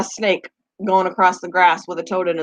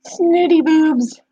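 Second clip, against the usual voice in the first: higher, slow and prissy; mock snooty voice; 7 semitones higher, much slower than usual. Reading a silly phrase in a snooty voice. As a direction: drawl it out like a snob.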